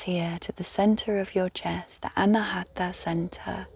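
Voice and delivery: calm guided-meditation voice with long pauses. Real, not acted. Guide inviting listeners to rest and breathe, meditative.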